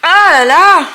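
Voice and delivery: loud, high exasperated cry; frustrated exclamation. Real, not acted. Frustrated the lid won't open. (exaspérée, à voix haute)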